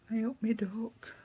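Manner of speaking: East Midlands "Hey up, me duck" greeting; friendly East Midlands dialect greeting, drawn out; local greeting. Shown as a demonstration. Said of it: "They do say that a bit round here".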